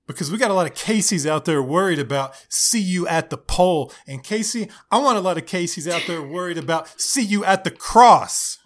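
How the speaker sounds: lightly voiced heartfelt youth pastor; building, preachy youth leader; upbeat youth pastor. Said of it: "the random youth pastor voice".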